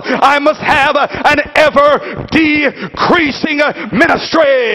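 forceful sermon cadence with stretched key words; emphatic preaching. Acted. Preacher voicing John to the congregation, emphatic preaching. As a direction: preach it in punched, rhythmic phrases.

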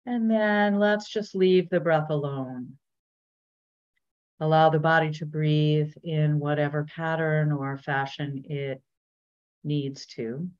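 unhurried body-scan guidance with long pauses; measured meditation teacher voice; guided meditation. Real, not acted. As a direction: gently lead listeners inward, leaving space between phrases.

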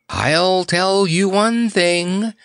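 slow, high lovestruck murmur. A narrator's reading. Bird nestling up to the clown, murmuring. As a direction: draw it out high and dreamily. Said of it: "murmured the great bird".

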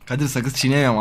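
talking around a retainer; wearing a retainer. Real, not acted. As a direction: retainer in mouth, slightly slurred. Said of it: "Ağzında plak var".

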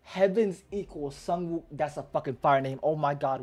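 slow, loud awe bursting into hype; real fanboy excitement; hyped fan. Real, not acted. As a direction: savour the title loudly, then gush. Fan hyped by character's title.

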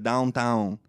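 "Downtown" with an NG sound put in; nasal NG ending the syllables of "Downtown"; NG thrown in. Shown as a demonstration. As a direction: say "Downtown" as downg-towng. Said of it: "I'm throwing an N G in there".

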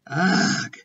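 short acted noise of revulsion; spluttered disgust. A narrator's reading. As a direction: splutter at a foul taste. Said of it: "she spluttered".

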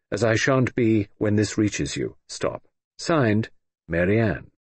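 brisk telegram dictation; telegram reading. Acted. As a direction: read it like a wire, stopping flat on every stop. Reply telegram read aloud.

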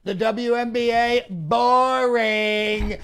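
loud scoffing dismissal; dismissive. Acted. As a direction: sneer the word out. Mocking dismissal.

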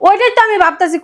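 worked-up retort. Acted. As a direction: protest with the pitch pushed up. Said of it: "এত চিল্লাছেন".

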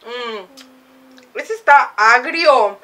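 grimacing at sour taste. Real, not acted. Seen 0: Left speaker grimaces, spoon raised, just tasted food while speaking.

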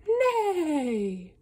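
a light, slow neigh; horse neigh. Acted. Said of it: "horses go".

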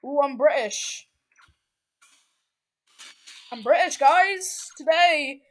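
hammed-up British accent, badly done; poor British accent. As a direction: fake a British accent that slips toward Texan. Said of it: "my British accent sounds like a Texan".

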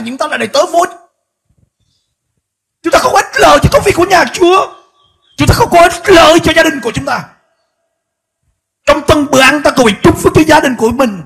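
high, loud impassioned exhortation; preacher rousing the church, at full force; fiery preaching. Acted. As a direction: thunder the warning at the congregation.

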